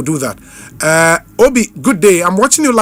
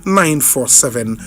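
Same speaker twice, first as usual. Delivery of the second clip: slow number dictation; slower than usual. Real, not acted. Host dictating call-in phone numbers.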